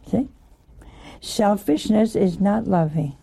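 ordinary talk

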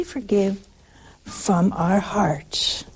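slow, hushed whisper. Real, not acted. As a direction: breathe the words from the heart. Sermon on forgiveness.

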